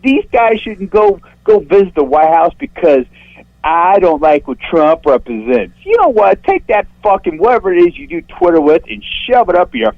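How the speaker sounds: real indignant shrieking, cursing out an online critic; shrill, worked-up rant. Real, not acted. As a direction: voice shooting way up in pitch as he rages. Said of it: "when his voice goes up, like, three octaves".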